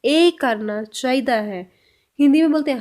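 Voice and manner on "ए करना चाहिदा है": very slow, each word apart; slow Punjabi model. Shown as a demonstration. Teacher to Hindi speakers, a very slow Punjabi model. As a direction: lay out सानू ए करना word by word. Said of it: "इसको पंजाबी में बोलेंगे".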